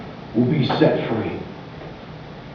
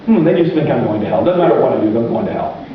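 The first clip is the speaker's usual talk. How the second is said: hopeless resignation; 8 semitones lower than usual. Retold or imitated. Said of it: "that kind of an attitude".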